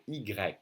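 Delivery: Y pronounced like an I, the French way; French letter Y. Shown as a demonstration. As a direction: say Y as French "i grec". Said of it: "Pronounced like an I, really".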